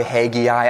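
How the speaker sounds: Haggai as HAY-ghee-eye, long a; alternate pronunciation. Shown as a demonstration. Pastor showing a second way to say Haggai. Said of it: "you could say it a couple of different ways".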